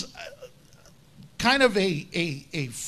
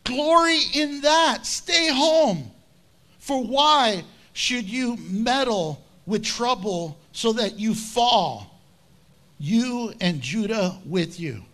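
scornful king. Retold or imitated. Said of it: "He says this".

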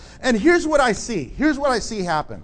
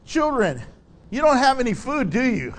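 mocking tone; 2 semitones higher than usual. Shown as a demonstration. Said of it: "the tone in the Greek is more as if he was saying".

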